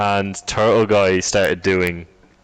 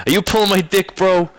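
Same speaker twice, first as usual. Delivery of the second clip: mock outraged bro, much higher; mock Hoover quote; 10 semitones higher than usual. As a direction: ham up a disbelieving bro, pitched up. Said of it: "the whole thing was".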